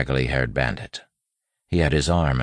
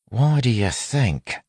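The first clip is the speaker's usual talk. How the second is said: slow, high street-tough retort; street-tough accent; 10 semitones higher, 3 dB louder, slower than usual. A narrator's reading. Wayne answering the squinting robber, street-tough accent. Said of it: "speaking in the street-tough accent".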